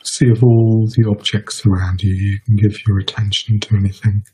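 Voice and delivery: measured meditation guidance with long pauses; guided meditation. Real, not acted. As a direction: guide listeners unhurriedly, leaving space between phrases.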